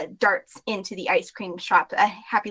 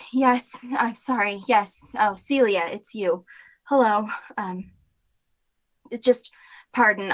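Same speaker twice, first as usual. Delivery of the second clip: tired clerk. Acted. Tired shop clerk apologizes.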